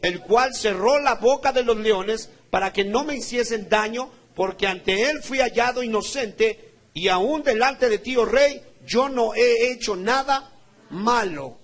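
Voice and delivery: loud, slow, ringing proclamation; declaimed scripture reading. Real, not acted. Preacher reading Daniel's defence before the king, loud declamation. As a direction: proclaim each phrase to the whole church. Reads Daniel's answer aloud.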